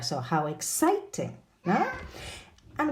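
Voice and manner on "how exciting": "how exciting" with CIT stretched and swooping; exaggerated stress. Shown as a demonstration. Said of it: "Exaggerating the stressed syllable".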